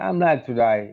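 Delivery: imitated American accent on "like to die"; American lady's accent. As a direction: say "late today" with American vowels. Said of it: "One of the American ladies". (American యాస అనుకరణ)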